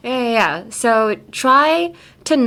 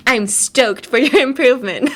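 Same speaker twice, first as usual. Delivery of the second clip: hammed-up stoked sensei, higher-pitched; enthousiasme joué; 4 semitones higher, 3 dB louder than usual. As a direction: act out an over-keen teacher's line. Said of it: "Takeda Sensei was like".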